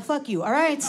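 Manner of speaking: ordinary talk, nothing marked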